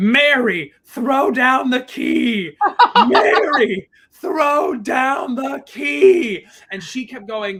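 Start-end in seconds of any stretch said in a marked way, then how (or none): 0.0-6.5 very loud, very slow, high, drawn-out repeated screaming. Retelling a man at three in the morning screaming for Mary, retelling a man screaming. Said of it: "just kept screaming".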